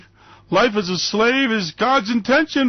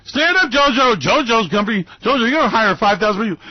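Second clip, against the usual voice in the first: loud, high, fast rally boast; hammed-up president calling on a worker; mock president at rally; 3 semitones higher, 4 dB louder than usual. Mock Trump rally speech.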